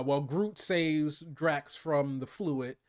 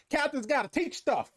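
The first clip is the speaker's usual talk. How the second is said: high goofy henchman voice; dopey Kraglin; 12 semitones higher than usual. Retold or imitated. Doing Kraglin's dumb line.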